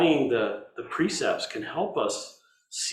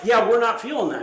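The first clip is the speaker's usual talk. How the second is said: unimpressed cooks; 8 semitones higher, 6 dB louder than usual. Retold or imitated. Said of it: "they're like".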